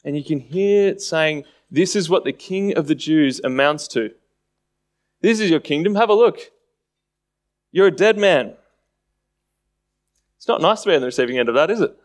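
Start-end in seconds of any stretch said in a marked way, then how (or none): 1.7-8.6 a mild taunting sneer at a prisoner; lightly voiced jeering soldier; understated mockery, rising on the taunt; mocking tone. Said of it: "it's all in this mocking tone".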